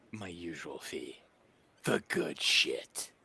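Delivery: mildly put-on bassy voice, drawn out at the end; lightly voiced dealer naming a price; a little bass in the voice. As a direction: put a touch of bass in it, fading to a breath. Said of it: "puts a little bass in his voice".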